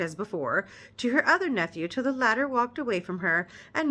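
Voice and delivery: measured read-aloud narration; story narration. Acted. Reader narrating the novel to her viewers, measured storytelling.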